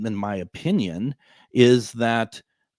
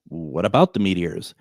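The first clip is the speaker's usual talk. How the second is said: bewildered echo; 5 semitones lower than usual. Retold or imitated. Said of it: "And I'm just like".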